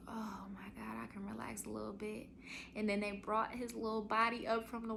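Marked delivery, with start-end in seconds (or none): 0.1-2.3 whispered and soft, with relief; relieved whisper. Retold or imitated. Whispering relief as the baby's body leaves. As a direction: breathe it out like the pain just stopped. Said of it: "I was like".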